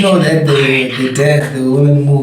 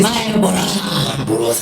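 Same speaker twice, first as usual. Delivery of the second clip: deep anime voice; 4 semitones higher, 4 dB quieter than usual. Pretend. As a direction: say it with your chest, anime style. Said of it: "Like it comes from the chest".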